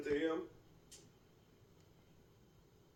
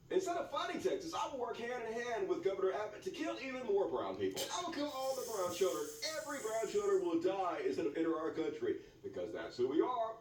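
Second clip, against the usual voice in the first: mock candidate; 3 semitones higher than usual. Satirical mock campaign speech.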